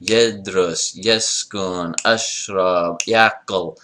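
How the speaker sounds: yedrus, yeskun, ashrab, yakul slowly in two beats each; measure-one rhythm. Shown as a demonstration. Teacher contrasting measure one, yedrus to yakul in two-beat rhythm. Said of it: "tell by the number of syllables".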